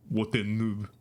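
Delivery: put-on echoed catchphrase, lightly French-accented; weird French accent. Streamer hears old schoolmate's catchphrase in his head, light French accent. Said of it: "I always hear".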